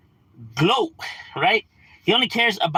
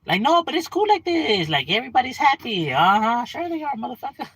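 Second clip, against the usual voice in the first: sarcastic mock; 10 semitones higher than usual. Sarcastic mock of other countries.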